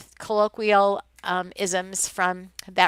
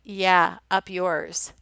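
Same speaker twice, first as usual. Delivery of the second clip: mock rude retort; 3 semitones lower, much slower than usual. Rude meaning abroad acted out.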